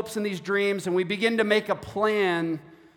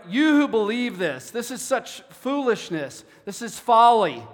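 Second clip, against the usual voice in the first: imitated scorn, emphatic on key words; lightly scoff, as if quoting a scolding; mock sarcasm. Pastor voicing James scolding foolish planners, with a bit of sarcasm. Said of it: "speaking with a little bit of sarcasm here".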